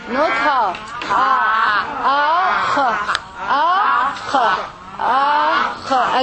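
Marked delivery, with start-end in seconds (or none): 1.1-6.2 akh called out loud from the throat; loud akh drill. Shown as a demonstration. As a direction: drill the raspy akh hard.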